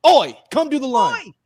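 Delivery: high-pitched mock summons; calling out. Telling friend to fetch his wife, calling out. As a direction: call her up from downstairs, playfully.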